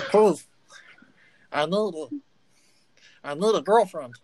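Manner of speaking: lightly voiced needy gnome, begging; a gnome begging for a night elf girlfriend; pleading gnome. Naked gnome begs the tavern for a girlfriend, pleading gnome voice.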